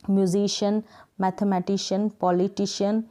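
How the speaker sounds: "म्यूजिशियन, मैथमेटिशियन, पॉलिटिशियन" each ending in shun; correct shun ending. Shown as a demonstration. Teacher listing examples, "म्यूजिशियन, मैथमेटिशियन, पॉलिटिशियन" each ending in shun. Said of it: "इस तरीके से शन का sound आएगा".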